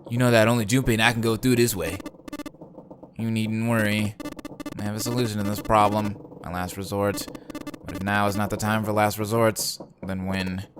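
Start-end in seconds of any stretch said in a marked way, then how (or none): 3.2-10.7 lightly voiced calm British gentleman; a hint of a low nerdy British voice; Snake voice. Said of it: "I get a British accent, but then I get, like, this, like, low, deep, like, nerdy voice".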